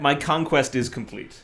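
proud conqueror declaring victory; villainous gloat. Acted. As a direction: savor the triumph, grandly.

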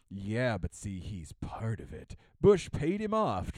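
hint of a smug theorist; mock insistent theorist. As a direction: play a smug theorist who won't budge.

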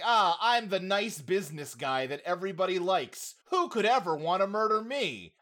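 lightly hammed-up nice guy, rising into mock innocence; imitated friendly businessman. Charismatic businessman everybody likes, imitated innocence. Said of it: "he's very like".

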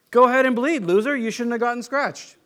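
a touch of hammed-up contempt; mock scolding. Preacher scolding his cut arm, mock contempt. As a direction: sneer at the wound.

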